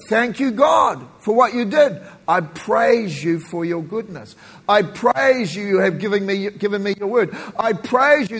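prayer voice. Shown as a demonstration. Models prayer of praise.

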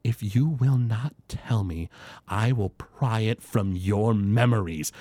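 lightly voiced menacing older woman; older dragonborn woman. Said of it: "And she goes".

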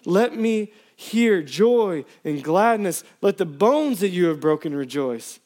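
pleading psalm read with rising intensity; impassioned scripture reading. Acted. Pastor reading a psalm to church, pleading. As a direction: preach the plea as your own. Preacher reads the psalm aloud.

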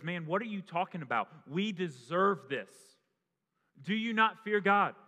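one dying criminal rebuking the other, loud and sharp. Acted. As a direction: scold him from the next cross. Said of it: "the other says".

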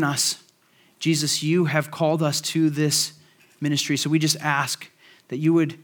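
earnest, measured pastoral prayer; closing prayer. Real, not acted.

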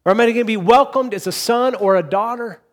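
put-on high, loud, anxious voice of a fretting child; fretful voice of a believer afraid of facing God; worried believer. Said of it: "He doesn't want them to be worried".

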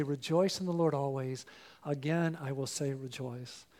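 soft, hushed morning declaration; quiet self-preaching. Shown as a demonstration. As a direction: say it softly to yourself at dawn. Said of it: "Will you get up and say".

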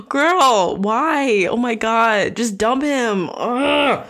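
fed up with her choices, say it loud; exasperated. Real, not acted. Exasperated reaction to memoir.

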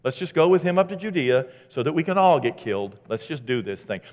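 mildly sarcastic resignation, pitch falling away; mild sarcasm. Acted. Thomas agreeing to go to Judea and die, mild sarcasm. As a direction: give it a touch of weary sarcasm. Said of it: "without a little bit of sarcasm".

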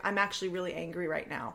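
quiet, level naming of anger; calm stated anger. Shown as a demonstration. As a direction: say you're angry without any heat. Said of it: "It's actually more powerful to be like".

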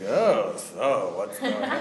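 lightly hammed slow villain voice with a laugh; a hint of a cartoon baddie; mustache-twirling villain. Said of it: "doing an awful lot of mustache twirling".

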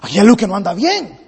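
low, subdued frustration; mutedly baffled at a failed attempt; frustrated. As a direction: let the disappointment sink the voice. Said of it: "El hombre se frustra y dice".

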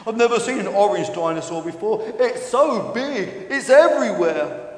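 a touch of wide-eyed dinosaur wonder; lightly voiced Stefan, amazed. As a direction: marvel as a naive dinosaur, stretching the words.

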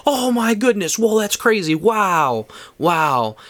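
high awed gasps that settle; high awe fading to plain; amazed kid. Retold or imitated. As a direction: marvel like a wide-eyed kid. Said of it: "And I'm like".

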